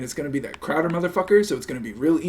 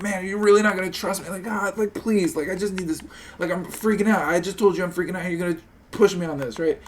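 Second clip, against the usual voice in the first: higher, pleading fake near-cry; mock tearful plea; 5 semitones higher than usual. Streamer demoing pleading with the boss, mock tearful. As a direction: beg like you're about to cry. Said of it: "kinda cry a little bit".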